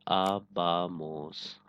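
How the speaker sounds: आबामोस stretched out syllable by syllable, very slowly; slow model word. Shown as a demonstration. Teacher showing students the new ending, very slowly. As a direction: drag out आबामोस so every syllable is clear. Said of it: "सिर्फ इस R A को हटाएंगे".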